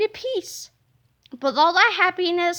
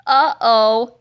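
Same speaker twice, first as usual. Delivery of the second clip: low, loud nervous uh-oh; gulp; 5 semitones lower, 7 dB louder than usual. Acted. Boy realizing the toilet is after him, gulping. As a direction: gulp in sudden fear. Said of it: "Melvin gulped".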